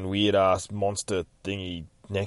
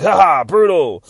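gleeful cheer; 8 semitones higher, 12 dB louder than usual. Retold or imitated. Lucy after shooting enemies.

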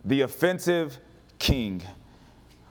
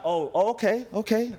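higher, mock-offended reaction; hammed-up affront; mock indignation; 5 semitones higher than usual. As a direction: act like you're gearing up for a fight. Acting out someone offended, readying to fight.

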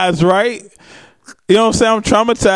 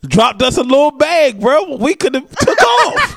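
tipsy bar argument; 7 semitones higher than usual. Real, not acted. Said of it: "What was you drinking last night?".

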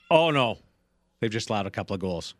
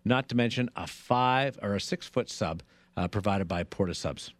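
radio contest promo. Acted. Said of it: "Possibly the worst read ever for the holiday tailgate party".

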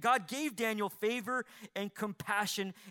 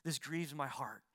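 much softer, gentle begging; meek, gentle plea; 4 semitones lower, 7 dB quieter than usual. Acted. Daniel gently pleading with his overseer, soft and meek. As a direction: plead softly and humbly, not pushing. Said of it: "in meekness and in gentleness".

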